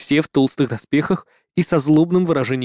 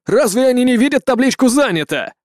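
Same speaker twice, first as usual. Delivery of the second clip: annoyed grumble; 8 semitones higher than usual. A narrator's reading. Malcolm annoyed at door.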